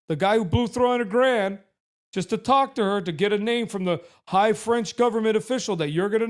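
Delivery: drip it with mock agreement; sarcastic mock reply.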